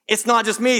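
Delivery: brighter, emphatic repeat; relieved realization. Retold or imitated. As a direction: say it again with growing relief. Repeated aloud, stronger.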